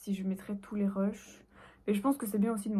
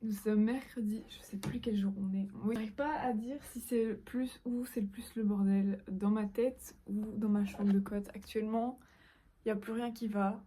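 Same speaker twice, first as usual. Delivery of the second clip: slow motion speech. Real, not acted. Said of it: "vous avez un ralenti de moi en train de parler".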